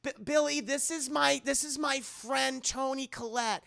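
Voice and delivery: high-pitched soothing chatter; calm a nervous friend and a shy child spirit; acted grandmotherly fussing; reassuring grandma.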